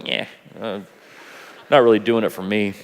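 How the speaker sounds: bored dismissal. Retold or imitated. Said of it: "you hear the preacher go".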